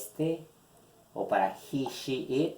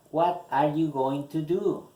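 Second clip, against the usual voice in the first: careful, higher and louder model question; articulation soignée; 4 semitones higher, 5 dB louder than usual. Shown as a demonstration. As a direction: sound out every word of "going to do" for learners. Reads model question carefully for learners.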